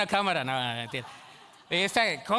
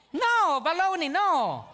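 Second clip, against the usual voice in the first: emphatic denial; 9 semitones higher, much slower than usual. Real, not acted. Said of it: "rejecting the mock claim".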